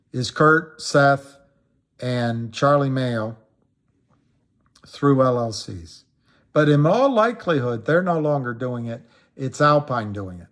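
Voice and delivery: ordinary talk, nothing marked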